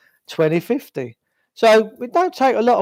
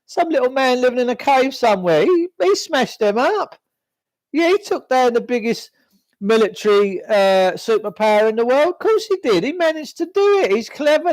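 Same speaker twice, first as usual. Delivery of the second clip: high, sneering mock voice of the sceptics; mocking the doubters; 5 semitones higher than usual. Mimicking people who dismiss his theories, high sarcastic voice. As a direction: parody the people who call him crazy, pitched up. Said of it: "they go".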